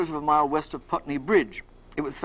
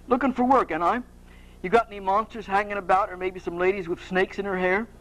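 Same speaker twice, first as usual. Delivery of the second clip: put-on light amateur Cockney accent; Cockney job-seeker asking around; Perseus. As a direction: have a modest go at Cockney. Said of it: "like to do a Cockney accent".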